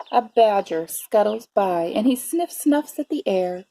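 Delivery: measured read-aloud with drawn-out key words; story narration. A narrator's reading. Teacher reading a bear story to preschoolers, expressive narration. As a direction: savour the rhymes for young listeners. Reads picture book to children.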